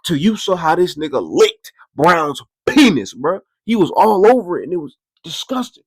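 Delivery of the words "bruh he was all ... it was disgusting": normal talking voice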